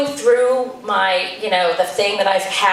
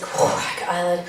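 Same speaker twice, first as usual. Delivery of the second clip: put-on nervous kid; 4 semitones lower, 5 dB quieter than usual. Son nervously recites audition line.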